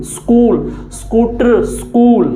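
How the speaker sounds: "स्कूल" and "स्कूटर" starting straight on the S; no i before "स्कूल" or "स्कूटर", each word set apart; Haryana pronunciation. Shown as a demonstration. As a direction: say "स्कूल, स्कूटर" as skool, skoo-tar. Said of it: "Haryana के लोगों से उच्चारण निकलेगा".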